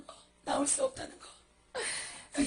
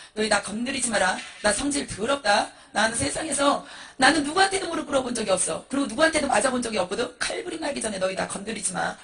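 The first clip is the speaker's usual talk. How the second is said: menacing boast with swelling emphasis; thug's threat. Acted. Gangster monk warning demons not to touch him, thuggish threat. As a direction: warn them off like a gangster. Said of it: "완전히 깡패".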